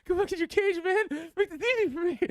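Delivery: high pleading plea to the dog. Retold or imitated. Coaxing the foster dog back into his cage, high and pleading. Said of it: "I'm like".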